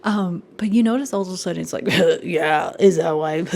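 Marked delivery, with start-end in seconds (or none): 2.2-3.4 mock condescending.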